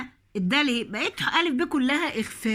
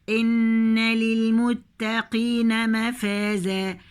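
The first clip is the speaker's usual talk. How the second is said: slow measured tajweed chant; slow Quranic recitation; much slower than usual. Shown as a demonstration. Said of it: "التاء هنا مرققة يا بنات".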